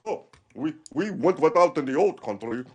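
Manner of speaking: put-on old pensioner voice; old Russian lady. Pensioner recalling the old country, old lady voice. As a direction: play a stubborn Russian old-timer. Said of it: "Sixty-five-year-old ladies".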